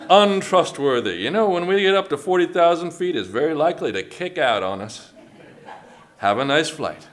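folksy Southern pilot announcement; Southern airline captain. Acted. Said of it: "they're always, like, Southern".

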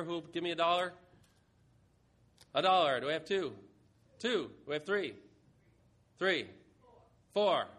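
punchy calls for each bid; auctioneer voice. Pretend. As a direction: work the room like an auctioneer. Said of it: "This is mock auction".

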